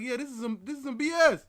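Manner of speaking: mock teacher, loud on the last words; teacher brushing off an excuse; dismissive teacher. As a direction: scoff it like an annoyed teacher. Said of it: "she's barking".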